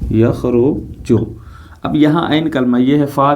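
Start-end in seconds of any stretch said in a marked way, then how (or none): 0.1-1.2 यखरुजु said very slowly and deliberately; slow demo word. Shown as a demonstration. Teacher modelling the verb for students, slow. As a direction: lay out यखरुजु slowly so students catch each sound. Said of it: "क्या आता है?".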